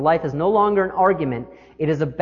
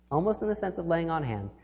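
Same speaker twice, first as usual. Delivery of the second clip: much softer, letting it sink in; quieter repeat; 9 dB quieter than usual. Shown as a demonstration. Preacher repeating image for congregation, hushed. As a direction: say it again hushed and reverent.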